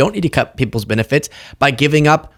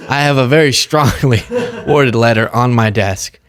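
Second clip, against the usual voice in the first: loose mock politician with laughs breaking in; half-hearted impression, halting between words; Chuck Schumer. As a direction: lightly imitate a senator making feeble threats. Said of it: "I can't even do his accent".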